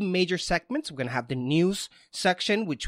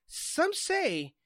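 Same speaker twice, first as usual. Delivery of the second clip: slow, teasing host introduction; dramatic announcer intro; 3 semitones higher, slower than usual. Acted. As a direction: build it up like a showman.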